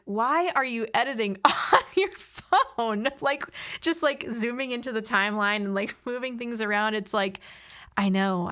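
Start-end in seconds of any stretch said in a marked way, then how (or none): 0.0-5.6 laughing mock nagging. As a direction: imitate your partner's complaint, laughing through it. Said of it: "he's always like".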